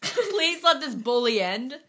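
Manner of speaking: dramatic repeat. Acted. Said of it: "That was a perfect example".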